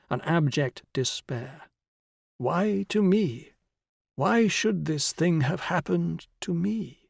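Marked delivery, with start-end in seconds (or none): 2.4-7.0 high, slow self-pitying wail; shrill complaining. A narrator's reading. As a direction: whine it out in despair. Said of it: "the shrill, complaining voice".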